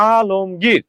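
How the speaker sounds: আলমগীর in three clear beats, a-lom-gir; measured a-lom-gir for আলমগীর; model pronunciation. Shown as a demonstration. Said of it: "তাহলে উচ্চারণ হবে এরকম".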